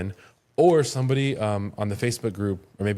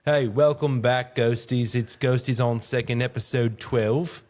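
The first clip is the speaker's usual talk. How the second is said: podcast intro; 3 semitones higher, slower than usual. Acted. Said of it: "That's not gonna make the cut".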